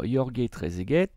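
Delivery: "Jorge Trezeguet" as Yor-gué Tré-zé-guet, Spanish-style; Spanish-style pronunciation. Shown as a demonstration. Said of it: "comme on le prononçait, j'imagine, euh, à l'espagnol".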